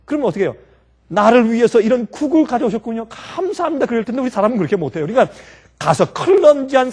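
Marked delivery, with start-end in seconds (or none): 1.1-3.8 acted gracious thanks. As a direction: give exaggeratedly polite thanks, lifting the thank-you. Acted thanks for spilled soup.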